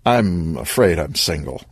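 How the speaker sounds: light chuckle into the line; amused, mild chuckled denial; laughing. Acted. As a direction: laugh off the question, then answer easily. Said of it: "Vic laughed".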